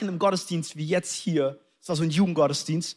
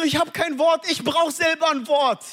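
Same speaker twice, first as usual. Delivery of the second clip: high, hammed-up inner plea; panicked protest; 9 semitones higher than usual. Reluctant missionary protesting inwardly to his pastor, high mock panic.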